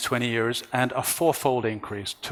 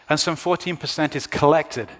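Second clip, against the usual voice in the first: collected leaned on, falling at the end; collected weighted so it sounds distinct from recycled; stress on collected; 3 semitones higher than usual. Real, not acted. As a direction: lean on the word collected to set it apart. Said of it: "I emphasize the word collected".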